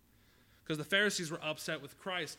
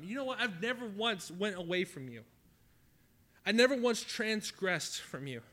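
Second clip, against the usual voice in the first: higher and louder, aggrieved protest to his father; angry older brother; 3 semitones higher, 5 dB louder than usual. Acted. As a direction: complain bitterly, feeling wronged. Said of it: "became angry with his father".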